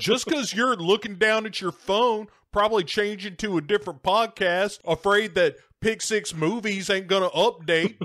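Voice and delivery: high-pitched impatient driver rant; hammed-up road-rage griping; voicing displeasure. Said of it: "so he can voice his displeasure".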